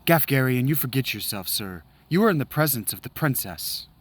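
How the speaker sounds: lightly acted haughty knight voices; a hint of a stern knight; knight and sellsword quarrel. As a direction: trade barbs with courtly disdain. Voices knight and mercenary exchange.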